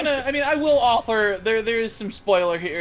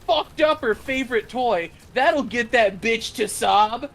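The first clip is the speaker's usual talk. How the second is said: mock scheming parent. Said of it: "And they're like".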